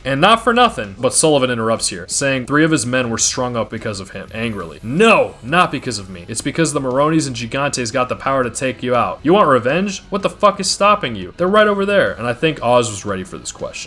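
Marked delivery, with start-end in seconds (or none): 4.8-12.1 raised, higher, fired-up gang boss pleading his case; rally the rival crews, voice climbing high; heated mobster speech. Acted. Oz rallying rival gang leaders, higher and fired up. Oz snaps back at Sullivan.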